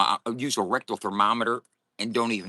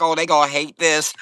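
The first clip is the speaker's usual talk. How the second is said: laughing; 7 semitones higher, 10 dB louder than usual. Real, not acted. Laughing at being alive.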